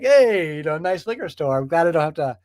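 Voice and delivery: a lightly voiced mafia heavy, casual and threatening; hint of a mob enforcer making a friendly threat; mafia extortionist. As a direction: play a smooth extortionist leaning on a shop owner. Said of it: "like she's a mafia extortionist being like".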